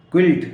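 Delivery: क्विल्ट said kilt with no u; silent u. Shown as a demonstration. Teacher repeating क्विल्ट as kilt. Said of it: "क्या पढ़ते हैं इसको".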